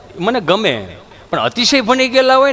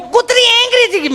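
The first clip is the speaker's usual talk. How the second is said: much higher, shrill panicked city lady; panicked shriek; 13 semitones higher than usual. Retold or imitated. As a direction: squeal in mock terror. Panicked repeat. (ગભરાયેલી ભાભીની ઊંચી ચીસ)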